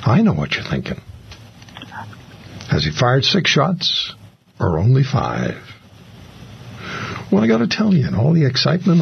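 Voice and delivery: lightly voiced tough-cop movie quote, deliberate pauses; Dirty Harry. Recalling a favorite film speech for the other guest, lightly acted movie cop. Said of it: "Dirty Harry to me".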